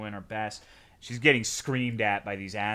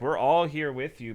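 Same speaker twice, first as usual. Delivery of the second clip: ordinary talk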